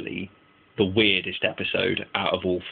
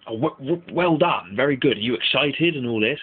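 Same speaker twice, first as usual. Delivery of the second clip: mock sarcastic praise; 5 semitones higher than usual.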